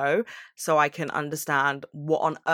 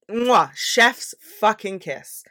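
chef's kiss; 4 semitones higher, much slower than usual. Real, not acted.

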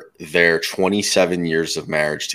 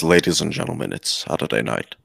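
low, monotone robot voice; flat robotic announcer; 3 semitones lower, 4 dB quieter than usual. Retold or imitated. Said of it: "his little weird robot voice".

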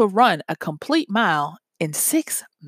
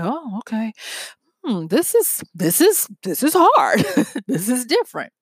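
strained laughing realization; 3 semitones higher than usual. Retold or imitated. Runner realizing it's hard.

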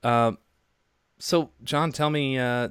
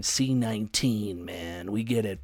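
AM radio voice; 2 semitones lower, 4 dB quieter, slower than usual. Acted. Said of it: "you gotta stop that voice".

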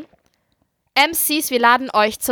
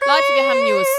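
excited announcement; 3 dB louder than usual. Acted. Announces news to listeners.

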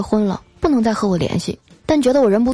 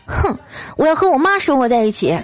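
higher-pitched mock-angry wife; huff, then deliver it as a threat; glaring, huffy; 5 semitones higher than usual. Retold wife storming off after a quarrel, huffy and indignant. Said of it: "还回头瞪着我说".

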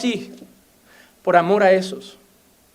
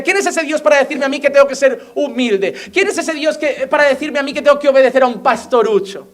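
mocking, haughty questions with bits of laughter; arrogant defiance; 3 semitones higher than usual. Pastor mimicking the proud who reject God, mocking haughty tone. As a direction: sneer like a proud man defying God. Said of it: "Faraón mostró altivez".

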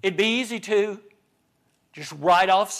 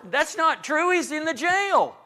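quick objection; 8 semitones higher than usual. Acted. Preacher correcting the quoted father.

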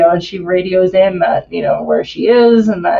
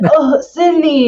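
high, slow, crying mock plea; overplayed dying boyfriend; hammed-up dying plea; 7 semitones higher, slower than usual.

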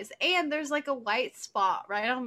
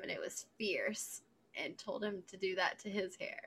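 whispering; 4 semitones lower, 7 dB quieter than usual. Real, not acted. Gossip whisper.

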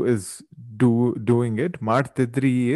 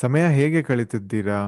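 Kannada accent; faster than usual. Shown as a demonstration. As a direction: clear native Kannada. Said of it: "let's go through the entire episode".

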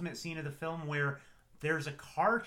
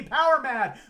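high, loud gleeful villain laughing; laughing power mad; 10 semitones higher, 11 dB louder, slower than usual. Acted. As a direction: laugh it out like a madman. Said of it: "she gets power corrupt".

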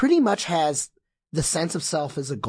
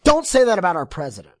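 mocking quote; 3 semitones higher, 10 dB louder, faster than usual. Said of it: "being like".

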